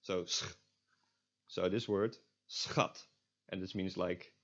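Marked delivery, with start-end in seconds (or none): 0.2-0.4 "sch" as S then throat fricative; S plus CH. Shown as a demonstration. Teacher isolating a consonant cluster, S plus CH. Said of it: "just an S and a ch". 2.5-3.0 "schat" said as "s-khat"; S then scraped throat CH in "schat"; S plus CH. Shown as a demonstration. Teacher giving the word for darling, S plus CH. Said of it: "just an S and a ch".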